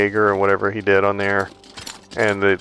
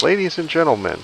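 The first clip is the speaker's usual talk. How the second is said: sing-song pilot greeting, higher; airline captain voice; 7 semitones higher than usual. Retold or imitated. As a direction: do the canned cockpit announcement. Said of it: "The sing-song voice that captains do on airlines".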